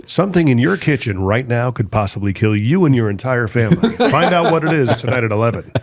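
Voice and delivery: dramatic TV news teaser voice; scary news tease. Pretend. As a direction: hype the danger like a news promo. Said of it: "Scary news teases".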